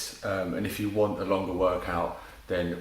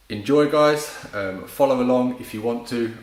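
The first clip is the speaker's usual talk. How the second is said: upbeat cheer; 3 semitones higher, 5 dB louder than usual. Real, not acted. Cheerful sign-off before workout.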